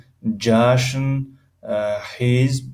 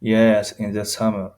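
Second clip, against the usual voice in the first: My birthday is in June را خیلی آهسته و شمرده بگو; کلمه به کلمه، آرام برای شاگرد; slow model reading; slower than usual. Shown as a demonstration. (جملهٔ نمونه با سرعت بسیار کند)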